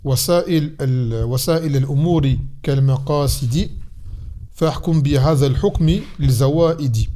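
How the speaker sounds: measured, metrical reading of a verse; teacher reciting classical Arabic verse; Arabic didactic verse recitation. Acted. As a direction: recite it line by line for students to learn.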